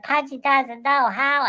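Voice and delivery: high, slow, helpless Pudgy. Pretend. Pudgy admits to Washington he can't stop it, high and slow. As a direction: say it slowly and high, like a lost kid.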